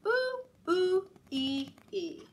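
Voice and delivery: high monkey ooh ooh ee ee; monkey noise. Shown as a demonstration. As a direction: chatter like a monkey. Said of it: "Can you try that?".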